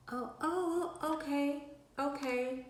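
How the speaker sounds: high, mock-startled okays; playing along in a squeaky high voice; mock surprised okay. Retelling the phone call, a high fake-agreeable okay. Laughing at friend's demand on phone.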